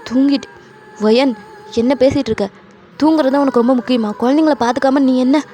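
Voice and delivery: mildly heated acted reproach; agitated, accusing questions; exasperated scolding. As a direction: scold a careless partner. Husband scolds wife for sleeping.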